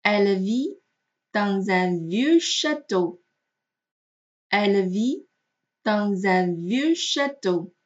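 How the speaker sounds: slow, careful phrases with "dans un" linked by z; liaison model reading. Shown as a demonstration. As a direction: link "dans un" in a measured teacher's reading. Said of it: "我们来看它对应的例句". (慢速例句示范，dans un连读)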